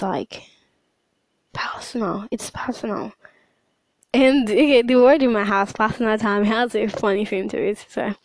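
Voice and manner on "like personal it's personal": whispered, softer secret; a soft, hushed insistence; hushed intimate. Acted. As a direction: breathe the word personal like a secret. Stressing privacy of prayer.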